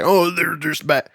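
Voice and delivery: slow, dismissive brush-off. Retold or imitated. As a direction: wave them off slowly. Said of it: "push them down and say".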